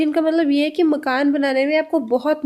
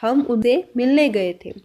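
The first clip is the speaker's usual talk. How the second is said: slow repeat; 2 semitones lower, slower than usual. Shown as a demonstration. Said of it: "next sentence में हम बोल रहे हैं".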